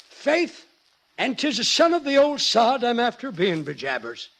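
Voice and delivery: hammed-up stage Irish accent. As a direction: lay on a thick Irish accent. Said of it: "Let me hear both accents".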